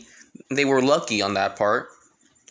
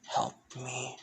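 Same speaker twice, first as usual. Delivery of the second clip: faint plea; 9 dB quieter than usual. Acted. Mysterious voice calls again.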